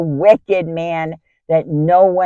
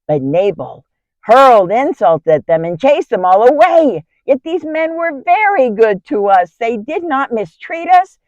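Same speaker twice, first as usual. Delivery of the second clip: urgent, higher-pitched report of bad news; alarmed shepherd; 4 semitones higher, 4 dB louder than usual. Shepherd brings his master's wife news of looming disaster, alarmed. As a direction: voice an agitated servant pleading for action. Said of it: "came running to me with alarming news".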